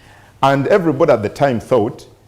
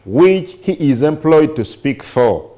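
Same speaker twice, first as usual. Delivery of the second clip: measured news-reading voice, slowing between phrases; reading aloud. Real, not acted. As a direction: read the report out deliberately, with pauses. Reads a newspaper report aloud.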